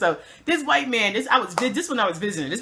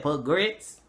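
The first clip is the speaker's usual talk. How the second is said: put-on Southern accent; 6 semitones lower, 4 dB quieter than usual. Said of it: "he was saying grits".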